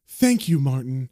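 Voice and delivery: mildly irritated thanks, dropping on the name; annoyed. Acted. Carol silences Martin at the counter, mildly annoyed. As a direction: cut him off with pointed thanks. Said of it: "looking annoyed at Martin".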